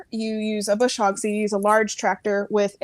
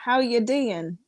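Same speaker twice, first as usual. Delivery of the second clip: badly copied Geordie accent; failed Geordie attempt; slower than usual. Shown as a demonstration. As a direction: have a go at Geordie and miss. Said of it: "I can't do it".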